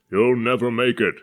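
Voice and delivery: put-on old man bellows at the departing ship; bellowing old man. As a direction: thunder a doom-laden curse. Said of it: "the booming voice of an old man".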